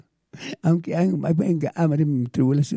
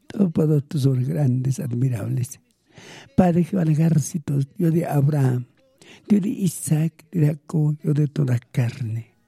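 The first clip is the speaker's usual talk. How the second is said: earnest spoken prayer to the Father; heartfelt prayer addressed to God; fervent prayer. Real, not acted. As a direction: pray aloud, pleading and thanking.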